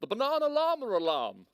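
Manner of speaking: high, loud pompous llama threat; stern officious llama. Acted. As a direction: threaten like a rule-bound official. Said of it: "It confirmed".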